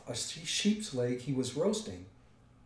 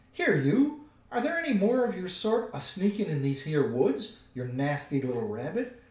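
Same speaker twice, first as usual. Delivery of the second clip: high, loud troll interrogation easing at the end; bully the captive for answers; threatening troll; 5 semitones higher, 6 dB louder than usual. A narrator's reading.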